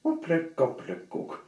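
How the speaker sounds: mock magic chant; magic word. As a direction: cast the spell in a strange goblin voice. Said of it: "which sounded like".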